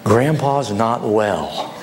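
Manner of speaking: low, slow, calming host; acted soothing plea with unhurried pauses; gentle explaining. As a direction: break hard news gently, pitched low. Host calms the upset guest.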